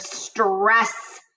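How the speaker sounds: "stress" drawn out for emphasis; deliberate, lengthened emphasis on "stress"; stressed for importance. Shown as a demonstration. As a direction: lean on the word "stress" to make it important. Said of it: "I change my voice to make it important".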